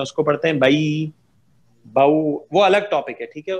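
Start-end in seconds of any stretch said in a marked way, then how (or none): 0.6-2.2 "बई, बाऊ" as soft gliding vowels; soft leen reading. Shown as a demonstration. Teacher showing students the gentle leen sound, soft gliding reading. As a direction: say "बई, बाऊ" smoothly, with no jerk. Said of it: "उसको नर्म और मुलायम पढ़ते हैं".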